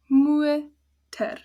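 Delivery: "motor" laut, "mu" lang, "ter" kurz; "motor" mit langem U-O vorne; Dutch motor. Shown as a demonstration. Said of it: "Second O is closed".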